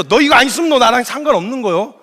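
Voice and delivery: mildly exasperated warning; mock irritation. Jesus warning stubborn Peter, mildly irritated. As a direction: act out fed-up impatience, lightly. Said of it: "짜증이 나셨어요".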